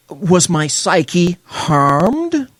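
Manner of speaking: gasp, then slow, drawn-out fake wounded question; sarcastic clutching-pearls; mock gasp of horror. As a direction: play the fragile victim, slowly. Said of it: "He utilized expletives".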